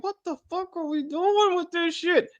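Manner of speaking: lightly voiced high exasperated quip; a hint of mock disbelief; exasperated quote. Host quoting her own exasperation. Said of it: "I'm like".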